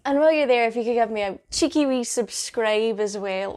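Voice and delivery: accidental pirate twang on "cheeky wee subscribe". Real, not acted. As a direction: slip into a pirate accent by mistake. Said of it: "Why did I sound like a pirate".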